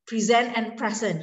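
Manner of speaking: "present" stressed on second syllable, then on first; contrasting stress. Shown as a demonstration. Teacher contrasting phonemic syllables, "present" stressed two ways. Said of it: "if you read the stress".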